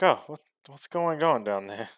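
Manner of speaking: startled questioning. Acted. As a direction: react to a scream from below. Character hears a scream below.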